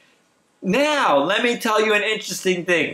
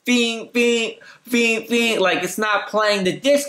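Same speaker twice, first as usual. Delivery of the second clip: mock disc drive beeping; slower than usual. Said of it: "it keeps making this weird noise".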